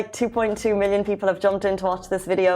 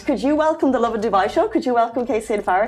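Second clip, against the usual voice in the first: excited host request; 3 semitones higher, much faster than usual. Real, not acted. Host hands guest the intro.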